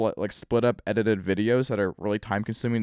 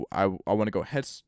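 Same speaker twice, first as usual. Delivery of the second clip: burping; faster than usual. Real, not acted. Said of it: "excuse me for burping".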